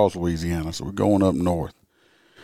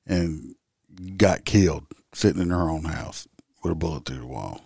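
whispering; 3 semitones lower, 5 dB quieter than usual. Real, not acted. Grim detail of child's death.

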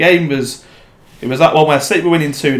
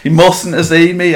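higher, livelier repeat of a punchline; emphatic retold quote; 6 semitones higher, 4 dB louder than usual. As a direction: repeat it for comic effect.

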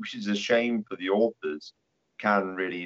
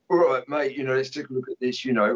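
foreman demon; 5 semitones higher than usual. Retold or imitated. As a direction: play the demon foreman sizing up the job. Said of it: "a demon character in Hell, ... a foreman demon".

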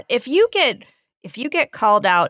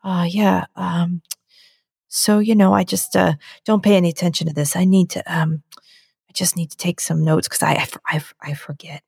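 really calm; 2 semitones lower than usual. Retold or imitated. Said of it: "he starts doing this really calm".

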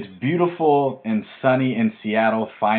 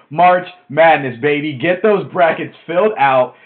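fired up; 4 semitones higher, 6 dB louder than usual. Real, not acted. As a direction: hype up March Madness like a fan. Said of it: "you guys can hear how fired up I get".

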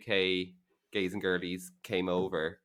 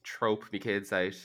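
a singer; 9 dB quieter than usual. Retold or imitated. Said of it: "a singer's like".

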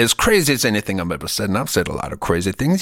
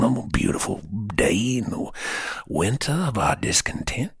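whispered, reverent; poetic whisper; 4 dB quieter than usual. Acted. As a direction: breathe it like poetry.

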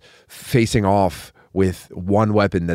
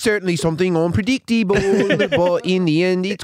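minstrel announcer voice; 10 semitones higher than usual. Pretend. Continues performer bit.

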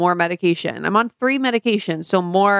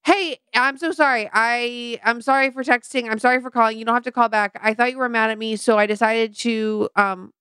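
higher-pitched rambling retold apology; anxious apology; 3 semitones higher than usual. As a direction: babble out a mock voicemail full of apologies. Acting out her rambling apology voicemail.

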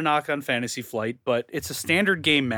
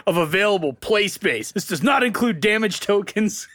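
nerd voice; 4 semitones higher than usual. Retold or imitated. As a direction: read the stats like an eager nerd. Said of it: "I'm reading this so hard in my nerd voice".

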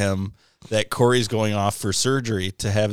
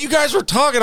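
much higher and louder, hammed-up; mock boss; 5 dB louder than usual. Boss quoting the show, mock high voice. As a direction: play the boss as a shrill caricature. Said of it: "He's like".

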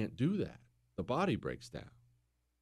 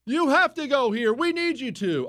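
insistent demand; 9 semitones higher than usual. Acted. French insisting loudly.

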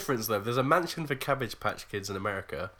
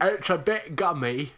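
slow, gummy mock voice; mushy toothless delivery; toothless speaker; 3 semitones higher, slower than usual. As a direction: talk as if the teeth have gone. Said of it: "all my teeth are black".

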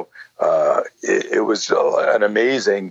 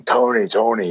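retold scream; 4 semitones higher than usual. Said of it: "she starts screaming".

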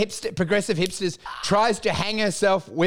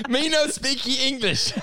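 mock broken English; 5 semitones higher than usual. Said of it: "this is my show next year".

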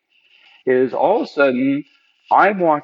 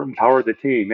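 empower said like a worn-out buzzword; tired slogan. Shown as a demonstration. Speaker to listeners, repeating a stale leadership slogan, offhand. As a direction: toss it off as a cliché everyone has heard. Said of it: "everyone's heard that before".

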